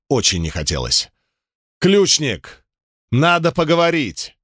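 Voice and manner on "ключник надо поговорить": shouting across a square, desperate. Acted. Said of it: "В отчаянии заорал на всю площадь я".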